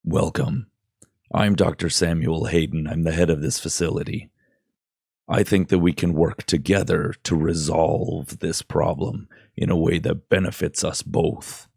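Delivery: lightly voiced low, grumbly scientist; a hint of ominous doctor, rumbled out; low grumbly villain. Game scientist greets the player, lightly grumbled. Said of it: "low and grumbly".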